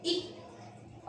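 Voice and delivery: a clipped voiceless इक, barely there; whispered ik. Shown as a demonstration. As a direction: breathe इक out unvoiced and short. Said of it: "हम इसे बोलते हैं इक".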